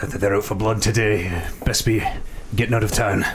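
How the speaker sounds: lightly voiced old villager; a hint of a wary rustic voice; old peasant warning. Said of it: "He kinda looks behind him and says".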